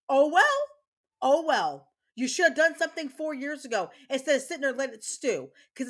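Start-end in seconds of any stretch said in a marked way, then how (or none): 0.1-0.7 a high, loud, scornful "oh well" with a rise on "well"; mocking oh well. Real, not acted. Mom to the school staff, a high, loud, mocking "oh well". 1.2-1.9 "Oh well" louder but at her usual pitch, falling; firm resigned "Oh well", no mock lift; flat oh well. Real, not acted. Mom to the school staff, a flat, firm, resigned "Oh well". Repeats it, flatter.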